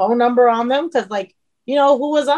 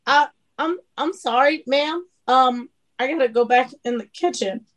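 awkward apology; 2 semitones higher than usual. Retold or imitated. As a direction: stammer a polite excuse to escape. Retells awkward escape from crying fan.

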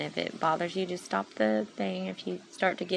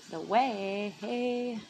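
crazy voice; 4 semitones higher, 3 dB louder, much slower than usual. Real, not acted. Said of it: "crazy voice right now".

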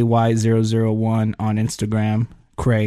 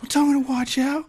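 high-pitched mock-angry outburst; imitating pissed-off guy; faster than usual. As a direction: mimic an indignant man, pitched way up. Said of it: "That dude was pissed".

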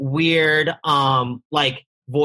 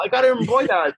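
raised-pitch imitated Chinese accent; 4 semitones higher than usual. Grandma presenting an embroidered vest, imitated Chinese accent. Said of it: "Like, in some Chinese accent".

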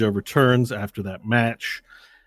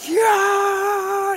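long, high roaring "yeah"; crowd cheer; 4 dB louder than usual. Acted. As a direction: imitate a giant stadium cheer. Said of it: "you hear a giant cheer like".

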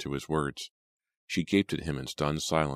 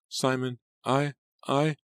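high, halting, stunned voice; small, high, stammering words; shocked stammer; 10 semitones higher, slower than usual. A narrator's reading. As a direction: falter in shock at the body. Shocked at finding father dead.

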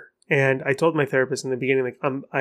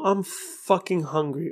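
slow, deliberate stress on "fucking"; emphatic cursing; 3 dB quieter, slower than usual. Shown as a demonstration. Podcaster demonstrating a curse used for impact, slow weight on "fucking". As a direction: lean slowly on "fucking" to highlight "hungry". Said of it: "bold, and highlight the words".

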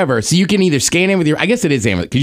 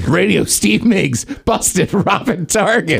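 slow mock headline; much slower than usual.

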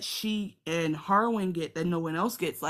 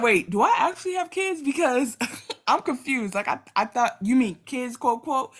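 high, loud, laughing sarcasm; cracking up while mocking; laughing mock confusion; 7 semitones higher, 7 dB louder than usual. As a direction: feign confusion through laughter. Sarcastic Laenor impression, laughing.

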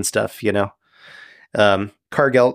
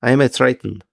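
prim, stilted fish-man correcting someone; a hint of a formal, careful sea creature; measured, mildly indignant Triton; lightly voiced Triton. Game master plays the Triton.

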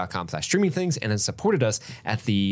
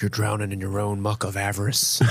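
lightly voiced wrestling promo; a hint of a wrestler's promo delivery; Jake the Snake; 2 semitones lower than usual. Podcaster misquoting an old wrestling promo, lightly in character. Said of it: "I wanna quote one of his".

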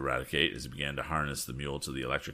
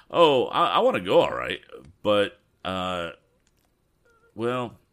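lightly voiced folksy handyman, reluctant; a hint of a stammering country excuse; hesitant Eradicate character; 4 dB louder than usual. Character voice in story dialogue.

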